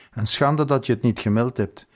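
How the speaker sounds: a touch of a curt reproach; mild snap. Acted. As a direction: scold the guard briskly, understated. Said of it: "snauwde de majoor".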